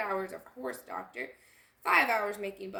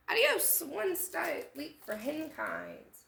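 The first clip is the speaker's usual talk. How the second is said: excited farewell; 6 semitones higher, slower than usual. Acted. Chickens blast off moonward.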